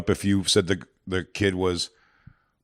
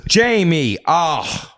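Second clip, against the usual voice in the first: high mock lament, falling away; dismayed mother; 7 semitones higher, much slower than usual. Mother despairing at her son Jamie, exasperated. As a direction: groan it out like a despairing mum. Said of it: "And she'll be like".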